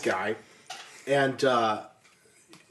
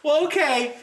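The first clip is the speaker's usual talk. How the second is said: laughing goodbye; 10 semitones higher than usual. Retold or imitated. Mom voiced, polite send-off.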